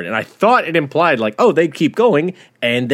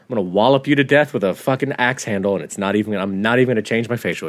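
deadpan farmer threat; 4 semitones lower, much faster than usual. Retold or imitated. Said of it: "That's that farmer's rage".

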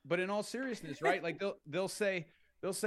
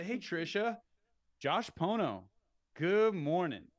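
confident, a touch louder greeting with firm pauses; with authority; 3 semitones higher, 4 dB louder, slower than usual. Shown as a demonstration. Agent opening a cold call, say name with authority. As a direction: own the call from the first word. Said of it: "say my name with authority".

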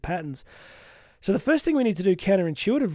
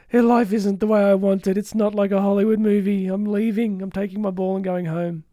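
huffy sulk; 3 semitones higher, 4 dB louder than usual. Retold or imitated. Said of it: "Clutch my pearls and go home".

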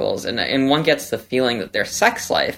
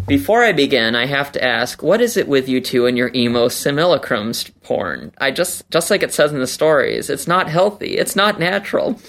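reading a letter; 2 semitones higher than usual. Shown as a demonstration. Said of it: "Candrel writes".

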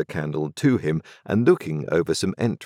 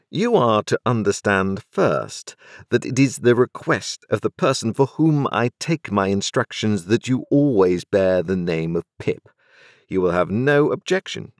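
a lightly voiced London lawyer, a bit higher and measured; cool, businesslike lawyer laying down terms; a hint of a dry, formal lawyer; stern lawyer; 5 semitones higher than usual. Jaggers addresses Pip.

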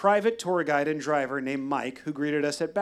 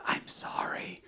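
barely voiced, soundless sorry; mouthed apology; 9 dB quieter, slower than usual. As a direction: mouth it without voice. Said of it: "I mouthed".

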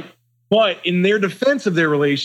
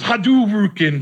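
drawn-out, higher move shout-out; game move call; 6 semitones higher, much slower than usual. Acted. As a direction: stretch it out like a fighting game attack. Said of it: "Usually he goes".

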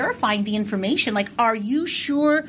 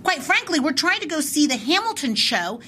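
heated, rising indignation; reliving the anger; 5 semitones higher than usual. Retold or imitated. Telling the clerk off at the store, heated and high. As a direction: pitch climbing as the outrage builds. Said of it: "Are you reliving it right now?".

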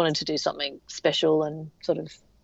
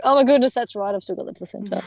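sudden realisation; 4 semitones higher, faster than usual. Retold or imitated. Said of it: "I was like".

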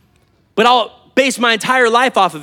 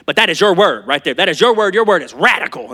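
put-on Oklahoma accent. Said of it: "She's got this accent".

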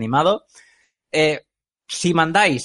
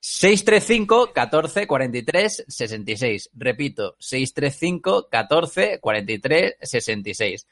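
infomercial. Shown as a demonstration. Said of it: "tú tienes más voz de teletienda que yo".

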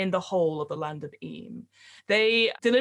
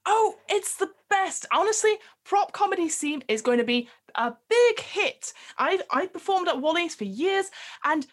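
prop comic voice; 8 semitones higher than usual. Acted. GM voicing Ronnie the prop comic.

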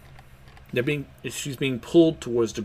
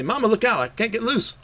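much higher squeaky henchman voice; pitched-up panicked lackey; high frantic cry; 10 semitones higher than usual. Acted. Homie cries out.

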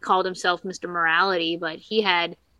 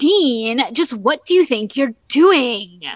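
louder and higher, mock prim scolding; prissy Sam; 3 semitones higher, 4 dB louder, slower than usual. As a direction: imitate a prim little brother scolding Dean. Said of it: "impertinent, prissy".

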